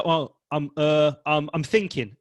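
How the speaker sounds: mock hesitant excuse. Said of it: "people say".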